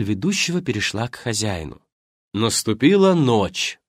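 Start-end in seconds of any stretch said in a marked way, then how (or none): 2.3-3.8 slow, louder, announcing the game; slow theatrical announcement of night; well-trained host voice. Acted. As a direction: proclaim it like a practised host. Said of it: "хорошо поставленным голосом провещал".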